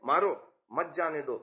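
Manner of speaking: मारो set apart as an order, then मत जाने दो; short break after मारो, मत joined to जाने दो; pause after मारो. Shown as a demonstration. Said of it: "आतंकवादी आ रहा है".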